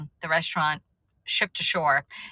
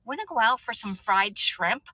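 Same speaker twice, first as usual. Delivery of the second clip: mom voiced lightly; 5 semitones higher than usual. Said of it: "she goes".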